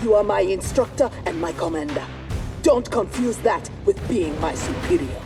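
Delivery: loud, forceful retort; angry defiance. Acted. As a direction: stand up to your commander loudly. Trainee defies the instructor mid-fight.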